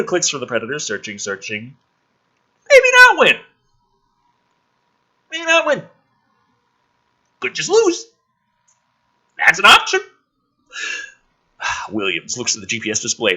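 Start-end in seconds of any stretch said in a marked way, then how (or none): 2.7-3.4 translation device voice. Acted. Device voice answering. 5.3-10.0 translation device voice. Acted. Device voice continues.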